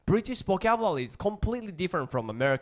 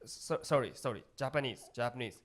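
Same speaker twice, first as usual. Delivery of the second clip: feigned helpless tourist; 4 semitones lower, 9 dB quieter than usual. Pretend. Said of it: "pretending not to speak English".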